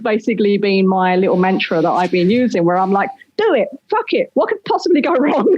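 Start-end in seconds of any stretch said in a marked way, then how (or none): 3.4-5.5 higher-pitched, mock self-encouragement; reckless pep talk. Speaker quoting their mantra to themselves, devil-may-care. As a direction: egg yourself on, breaking into a laugh.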